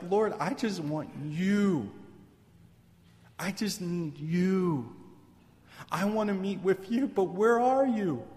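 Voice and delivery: acted heartfelt cry to God. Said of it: "Like you're crying out to the Lord".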